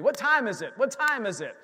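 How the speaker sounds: mock yell to the pastor, impatient; retold yell. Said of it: "I was yelling at Pastor Andy".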